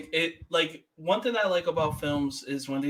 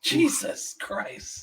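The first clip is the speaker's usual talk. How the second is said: exasperated; 11 semitones higher, much slower than usual. Real, not acted. Reacting to dark joke.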